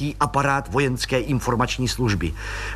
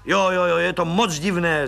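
bitter; 6 semitones higher than usual. Acted. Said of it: "řekl hořce plukovník".

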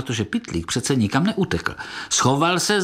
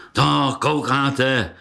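triumphant boast; 2 semitones higher than usual. Acted. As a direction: lord it over the crowd. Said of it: "prohlásil vítězoslavně". (vítězoslavné chlubení)

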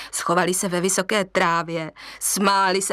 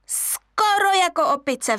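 higher monkey voices; screeching monkeys; 8 semitones higher, slower than usual. Acted. Monkeys teasing the lion cub, screeching. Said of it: "vřeštěly opice".

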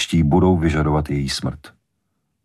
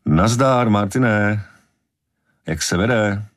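a touch too friendly, pitched up; overly friendly; 6 semitones higher, slower than usual. A narrator's reading. Vaughn greets the police chief on the phone, overly friendly. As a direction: greet him with forced friendliness. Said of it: "Vaughn mluvil přívětivě, až příliš přívětivě".

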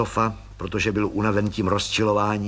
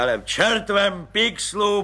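higher, happy boisterous outburst; mild blissful roar; 9 semitones higher than usual. Acted. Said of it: "burácel blaženě plukovník".

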